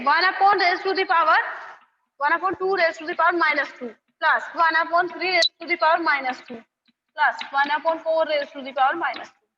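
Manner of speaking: slow, word by word, for copying; slow dictation. Shown as a demonstration. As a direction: spell it out slowly so they can write. Dictating part three for notes. (धीरे-धीरे लिखवाते हुए)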